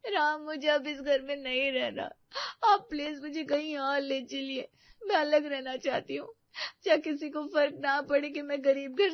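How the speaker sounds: quiet, tearful pleading; crying. Acted. Preeti begging Ram to take her away, quietly crying. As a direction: beg softly through tears. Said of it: "मैं बस प्रीति को रोते हुए देखना नहीं चाहता।".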